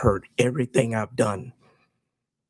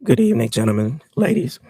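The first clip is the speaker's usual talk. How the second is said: hoarse voice; 5 dB louder than usual. Real, not acted. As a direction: voice nearly gone, hoarse. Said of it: "Voice is pretty much gone".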